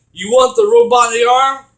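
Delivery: loud challenging question, play-acted; acted taunt. Retelling the game hero offering back the robotic arm, acted taunt. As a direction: throw it out as a mock taunt.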